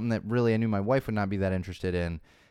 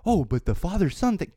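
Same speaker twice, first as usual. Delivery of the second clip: higher, louder mocking defence; mock whiny fan; 9 semitones higher, 4 dB louder than usual. Podcaster mocks fans defending the movie, whiny. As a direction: whine it like a fanboy.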